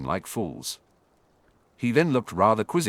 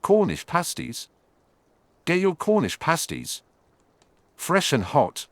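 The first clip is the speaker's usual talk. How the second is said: hawking pasties in a raised voice; a street vendor calling out to passing fans; 7 semitones higher than usual. A narrator's reading. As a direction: call it out to the crowd like a market vendor. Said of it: "a familiar voice calling out".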